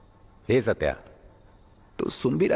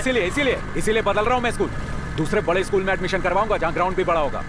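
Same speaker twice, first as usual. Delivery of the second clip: angry insistence; 4 semitones higher than usual. Acted. Father insists on changing schools.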